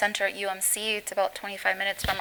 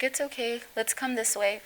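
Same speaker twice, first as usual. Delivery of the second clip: lightly imitated calm reassurance; 3 semitones higher, 3 dB quieter than usual. Firefighter guiding burned boy to the ambulance, mildly imitated calm. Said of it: "very calmly".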